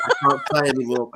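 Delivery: mock choked-up voice, laughing through it; strangled voice. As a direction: fake tears, voice squeezed tight. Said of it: "I'm sorry, I'm choked".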